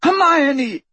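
high, anguished shout; desperate bellow. A narrator's reading. Trapped friend bellowing to the girl being tortured upstairs. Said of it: "Ron was bellowing".

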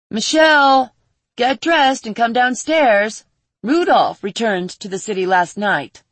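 calling loudly up the stairs. Acted. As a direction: raise the voice to call her down. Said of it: "a muffled voice called out".

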